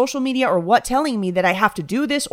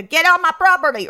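mock-angry shout, louder on the order; hostile local yelling; 8 semitones higher, 5 dB louder than usual. Imagined local chasing off a stranger, mock hostile yell. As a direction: bark it like a hammed-up property owner. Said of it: "people would hate me, tell me to".

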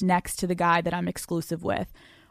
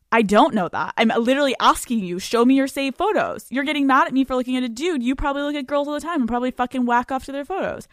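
mock indignant; 4 semitones higher, faster than usual. Girlfriend turning accusation on boyfriend, mock indignant. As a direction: rattle it off, higher, turning it on him.

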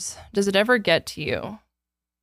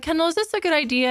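nervous; 9 semitones higher than usual. Retold or imitated. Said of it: "I remember being like".

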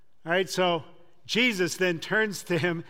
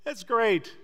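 toasting friends; 4 semitones higher, 3 dB louder than usual. Retold or imitated. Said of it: "raise a glass to toast him and say".

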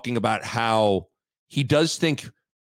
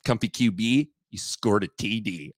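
a hint of a housewife who knows nothing of football; clueless housewife voice; 4 semitones lower than usual. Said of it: "deliver it like it's a housewife that doesn't know anything about football".

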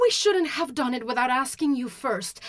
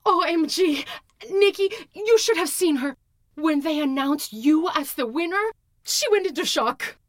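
giggly gossip; 6 semitones higher than usual. Acted. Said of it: "Chloe giggled".

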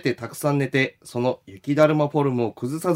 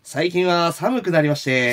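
slow, lightly storyteller-like delivery; a hint of rakugo storyteller; rakugo-like reading. Real, not acted. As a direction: read it slowly, a bit like a rakugo opening. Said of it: "そんな喋り方ちゃうよ。 / あ、落語？".

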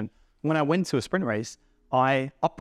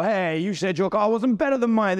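mock accusing car owner; 7 semitones higher, 3 dB louder than usual. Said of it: "And they go".

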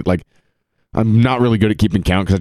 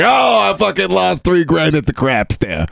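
high, slow hammed-up gambler's groan; hammy loser lament; 12 semitones higher than usual. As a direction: moan it like a proud, broke gambler. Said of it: "That's a way better story".

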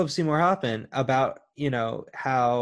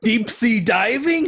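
high, slow, on the verge of laughing; trying not to laugh; 9 semitones higher, 5 dB louder, slower than usual. Real, not acted. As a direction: squeeze it out through laughter. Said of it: "Sorry, I'm losing it".

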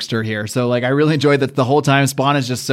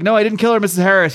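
higher-pitched protest of innocence; mock pleading denial; 6 semitones higher, faster than usual. Arnold arguing with Missus Harris, protesting higher. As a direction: act out an urgent denial. Acted argument within one body.

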